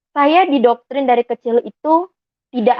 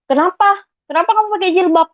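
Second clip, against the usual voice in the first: aunt's sneering question; 7 semitones higher, faster than usual. Retold or imitated. Aunt challenges her niece's headscarf, mock scolding. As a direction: snap it like a disapproving aunt. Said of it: "pandangnya sinis".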